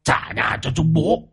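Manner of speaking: high, soft eerie ghost chant. A narrator's reading. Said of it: "Nó nhìn chừng chừng vào chị Liên". (giọng ma rên rỉ đòi nhà)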